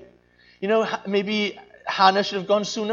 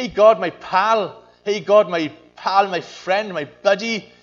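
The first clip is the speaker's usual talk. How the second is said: breezy, louder mock chum to God; casual buddy tone; 8 dB louder than usual. Preacher mocking too-casual prayer, breezy and loud. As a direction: toss it off like greeting a pal. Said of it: "treat him as a buddy".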